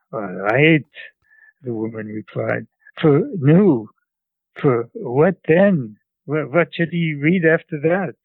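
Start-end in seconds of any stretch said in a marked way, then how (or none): 0.1-0.8 put-on old woman's reply in a Central European accent; grandmother's Central European accent. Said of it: "imitate my grandmother, uh, my grandmother's, uh, English". 3.0-8.2 put-on higher, questioning old woman with a Central European accent; grandmother's Central European accent. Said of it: "imitate my grandmother, uh, my grandmother's, uh, English".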